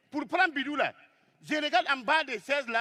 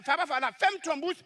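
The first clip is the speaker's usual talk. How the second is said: normal talking voice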